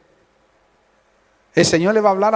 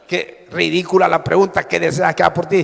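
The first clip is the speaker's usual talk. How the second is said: scoffing quote; 4 semitones lower, faster than usual. Retold or imitated. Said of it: "alguien puede haber dicho".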